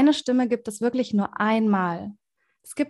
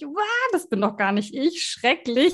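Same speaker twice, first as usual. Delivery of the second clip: shocked reaction; 4 semitones higher than usual. Retold or imitated. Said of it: "Man hört sich und denkt sich".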